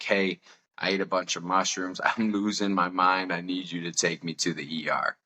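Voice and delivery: retold calm announcement at an everyday pitch; level, composed plea to parents, lightly acted. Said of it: "I'm kinda calm in the moment".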